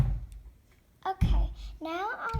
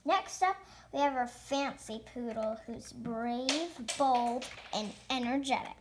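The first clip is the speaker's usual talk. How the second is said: show host; 6 semitones lower than usual. Pretend. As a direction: announce the next act to a crowd. Hosts the pretend pet show.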